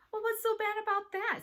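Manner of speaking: put-on high-pitched indignant girl. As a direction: challenge them, pitched right up. Girls quarrelling over written insults.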